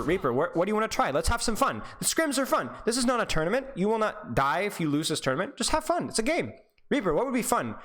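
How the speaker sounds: lightly voiced eager teammate; mock upbeat self-talk. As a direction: cheer your Reaper on, playful. Coach acts out player's cheerful self-talk.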